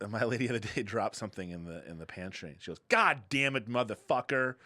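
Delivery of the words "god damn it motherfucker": louder, a swearing yell; retold outburst. Wife swearing after dropping something in the pantry, loud. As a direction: blurt the curse like dropping something. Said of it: "Like that".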